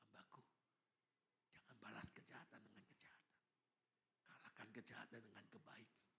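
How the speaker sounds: low, hushed divine counsel; voice of God. Acted. God restrains His angry servant, low hushed voice. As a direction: speak softly, almost whispering. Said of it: "ada suara yang lain berkata".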